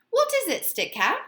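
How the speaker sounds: very high, pressing question; asking again. A narrator's reading. Edith asking Stick Cat again, high and insistent. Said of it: "asked Edith again".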